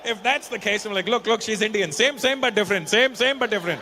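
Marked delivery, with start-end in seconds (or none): 1.1-3.8 higher, louder mock sales pitch; pitching lookalike. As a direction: push it like an insistent street hawker. Mimics vendor pitching lookalike, quoted.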